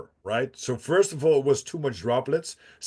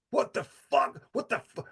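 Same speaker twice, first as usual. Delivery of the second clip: shocked disbelief; 8 semitones higher, 4 dB quieter than usual. Retold or imitated.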